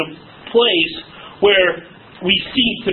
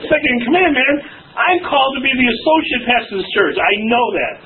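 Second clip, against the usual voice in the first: mock indignant; 5 semitones higher than usual. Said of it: "his own mock rant".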